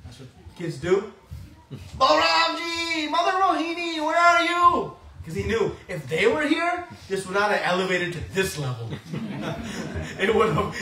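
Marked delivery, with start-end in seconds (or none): 2.0-5.0 put-on a tied-up child crying out for rescue; child calling for help. Krishna tied up, calling for Balram and Rohini, wailing high.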